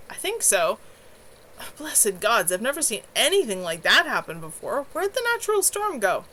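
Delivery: rattled and amazed after a magic battle; shaken young mage. Acted. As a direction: survivor of the storm asks where it went, stunned. Kevin shaken after the fight.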